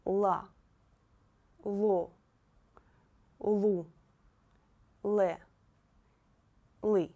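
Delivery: La, lo, lu, le, li read out loud and clear, one syllable at a time; loud, careful reading of La, lo, lu, le, li. Shown as a demonstration. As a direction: model each syllable crisply for the class. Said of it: "Let's read once again".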